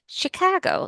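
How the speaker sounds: demonstrating a Midwestern "Chicago"; light Chicago-area Midwestern accent. Shown as a demonstration. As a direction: say "Chicago" as a Chicago local would. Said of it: "like that, like Chicago".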